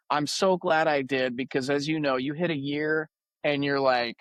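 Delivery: ordinary talk, nothing marked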